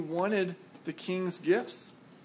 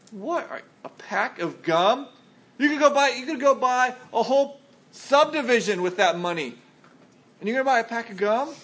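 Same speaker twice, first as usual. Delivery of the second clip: louder, higher disbelief at a wasted fortune; can't believe you'd waste it; incredulous friends; 4 semitones higher, 4 dB louder than usual. Retold or imitated. Friends scolding you for buying only gum, incredulous.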